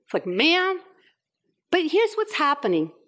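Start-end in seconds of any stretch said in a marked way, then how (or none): 0.2-0.8 indignant ma'am? with a rising tune; a mother taking offence at Ma'am?; a mom offended that her kids call her Ma'am?; offended Puerto Rican mom. Retold or imitated. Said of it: "you see a Puerto Rican coming out".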